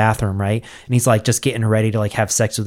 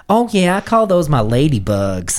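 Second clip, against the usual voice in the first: higher voice; 5 semitones higher than usual. Retold or imitated. Senator quoted in story.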